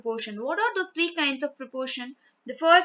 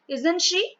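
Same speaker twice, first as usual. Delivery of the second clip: higher, rising check-back question; sudden questioning reaction; 4 semitones higher than usual. Shown as a demonstration. Teacher reacting to a statement about Radhika, sudden questioning. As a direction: react all of a sudden, voice lifting. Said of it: "react all of a sudden".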